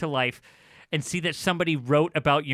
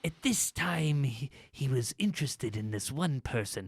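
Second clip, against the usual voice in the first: mock critic voice. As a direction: read it like a stuffy music critic. Parodying pompous music critic.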